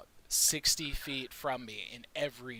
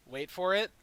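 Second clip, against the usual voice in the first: dramatic reveal; 3 semitones higher, 5 dB louder than usual. Acted. Dramatic reveal of spell effect.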